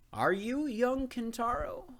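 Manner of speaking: put-on high, slow old man's voice, quite loud; a stooped old man calling to a boy; old gardener. A narrator's reading.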